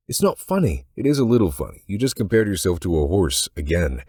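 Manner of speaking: high, loud protest melting into amusement; woman cracking at her own joke; Joanna, half amused. Acted. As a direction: scold him, then give in to the joke.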